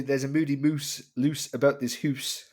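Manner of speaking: Scottish "hoose" sing-song rhyme; a hint of Scottish song; Scottish accent. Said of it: "my take on Moody Mouse".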